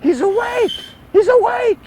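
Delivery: high, loud mock scream; screaming nurse. Nurse screaming to the staff that the patient woke up. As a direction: shriek it out like a startled nurse. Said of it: "I just hear screaming".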